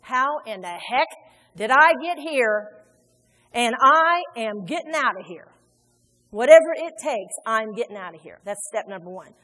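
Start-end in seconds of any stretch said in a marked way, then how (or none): 0.0-8.4 determined wake-up. Acted. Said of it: "wake up and come to yourself and say".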